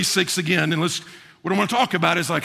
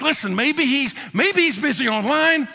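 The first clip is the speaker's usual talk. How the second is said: higher, sarcastic mock of a silent god; mocking taunt; 4 semitones higher than usual. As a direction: tease the false prophets, pitched up. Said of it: "starts to mock the false prophet".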